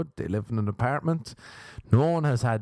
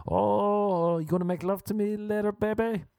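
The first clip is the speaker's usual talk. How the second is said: mock woman's voice; 11 semitones higher than usual. Mocking woman in donkey bit.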